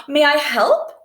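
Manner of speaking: high, eager bunny offer; Buddy eagerly offering help. Acted. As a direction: ask keenly, hoping to help. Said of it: "He asked eagerly".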